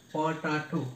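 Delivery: প টা টু in three distinct beats; teacher sounding out each syllable of প টা টু. Shown as a demonstration. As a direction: say প, টা, টু evenly separated. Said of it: "এরকম যদি আমরা প্রনাউন্সিয়েশন করি".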